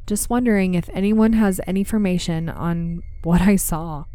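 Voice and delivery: measured, even read-aloud storytelling; story narration. A narrator's reading. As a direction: tell an eerie true account, pausing between phrases.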